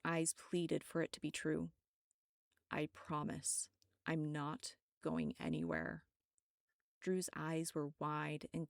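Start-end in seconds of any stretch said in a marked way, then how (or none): 2.7-6.0 hushed, gentle reassurance; softly promising to stay with her; tender promise. Acted. Tender promise to frightened woman.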